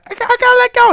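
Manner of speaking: high strained mock plea; high squeaky voice. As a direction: squeak it like the girl. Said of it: "he's like".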